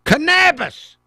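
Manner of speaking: loud, high mock accent on Cannabis, with a flat a; hammed-up mimicry of the guest's accent; mocking foreign accent. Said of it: "Yes, canna".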